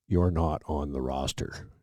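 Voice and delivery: slow, spelled-out repeat. Retold or imitated. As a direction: spell it out slowly for him. Sergeant repeats the same line.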